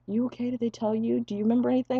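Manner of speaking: high-pitched fussing questions; anxious questioning. Retold or imitated. Family questioning the confused patient, anxious. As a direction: imitate worried relatives checking on him.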